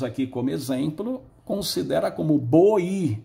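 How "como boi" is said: "boi" stretched slowly as if two pieces; child's split reading. Shown as a demonstration. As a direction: drag "boi" apart like a child. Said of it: "não tem ainda noção".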